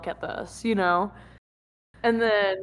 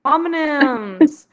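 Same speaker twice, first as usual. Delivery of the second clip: loud exclaim; 7 semitones higher, 8 dB louder, much slower than usual. Real, not acted. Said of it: "what's it called".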